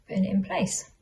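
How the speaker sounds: talking around pins in mouth; muffled by pins held between lips. Real, not acted. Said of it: "'cause I've got a pin in my mouth".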